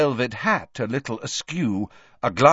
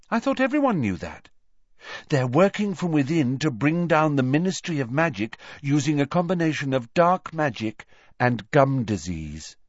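put-on lightly raised, matter-of-fact girl's voice; Luna, dreamy; 5 semitones higher than usual. Odd schoolgirl warns her friend of a conspiracy, lightly voiced and earnest. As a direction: state the odd theory with mild earnestness.

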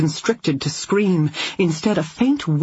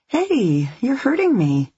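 frightened pained plea; 9 semitones higher than usual. A narrator's reading. Woman in pain, grabbed.

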